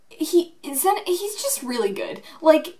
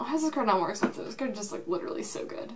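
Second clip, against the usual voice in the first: ordinary talk, nothing marked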